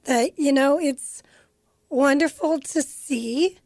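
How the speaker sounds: choked up with pride; teary. Real, not acted. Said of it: "I'm getting teary".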